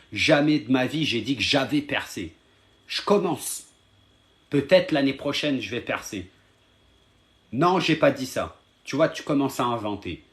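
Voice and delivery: real irritated, insistent protest; annoyed. Real, not acted. Streamer denying to a viewer he called himself a star, annoyed. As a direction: push back hard, punching out the denials. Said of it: "Regarde, là, je suis énervé".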